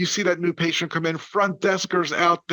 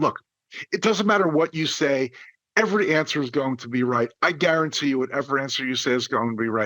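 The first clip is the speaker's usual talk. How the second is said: ordinary talk, nothing marked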